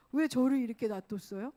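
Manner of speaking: mildly acted, loud reproach; angry complaint. Believer blaming God after sinning, angry complaint. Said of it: "하나님께 화가 나".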